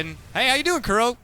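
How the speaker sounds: high, loud hype call; excited. Real, not acted. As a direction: ride the excitement of the play. Caster reacting to a big play.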